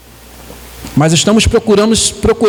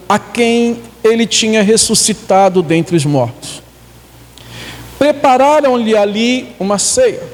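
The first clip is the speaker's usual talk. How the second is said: measured Bible reading with stretched key words; scripture reading. Acted. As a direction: read the story out slowly to the congregation. Reads Bible passage aloud.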